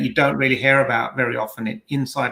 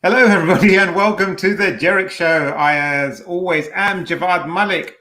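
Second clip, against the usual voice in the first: higher, upbeat show-opening voice; show intro; 5 semitones higher than usual. Real, not acted. Host greets listeners to the show, higher intro voice. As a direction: open the show with a raised greeting. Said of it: "hold on, I was meant to do this".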